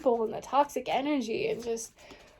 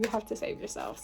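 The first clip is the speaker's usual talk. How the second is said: whispered, much softer repeat; 9 dB quieter, faster than usual. Shown as a demonstration. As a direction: breathe it out as a whisper. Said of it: "that's literally what I'm saying".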